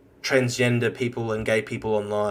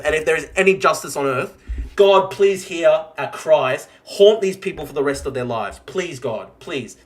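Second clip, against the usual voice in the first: pleading prayer. Real, not acted. Praying aloud for justice.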